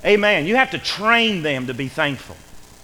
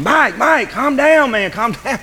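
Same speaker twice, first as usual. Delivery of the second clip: high, loud retold shouting; urgent calling out; 6 semitones higher, 6 dB louder, slower than usual. Preacher re-enacting calling to panicked coworker in attic, urgent. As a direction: shout to stop a panicking friend.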